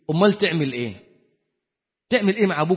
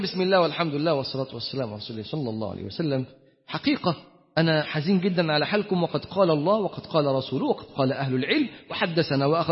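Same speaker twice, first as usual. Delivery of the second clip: mock preachy sheikh; 5 semitones lower, 7 dB quieter than usual. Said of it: "مش هتقعد بقى أما تيجي تقول".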